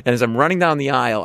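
ordinary talk, nothing marked

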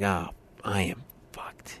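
whispered, slow and breathless; horrified whisper. Retold or imitated. To himself as the CEO recognizes him, a horrified whisper. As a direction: barely breathe the words out, aghast. Panicked aside in CEO meeting.

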